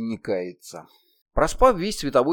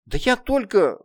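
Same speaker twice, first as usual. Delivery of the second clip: put-on sobbing child; 8 semitones higher, 4 dB louder, slower than usual. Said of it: "всхлипнула Кроха".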